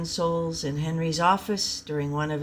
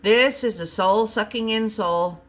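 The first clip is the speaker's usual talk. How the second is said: Robin's voice; 5 semitones higher, 4 dB louder than usual. Acted. Robin reveals result.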